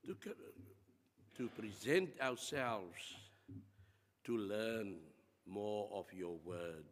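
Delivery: earnest prayer. Acted. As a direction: lead the church in heartfelt prayer, pausing between phrases. Congregation prayer led by pastor.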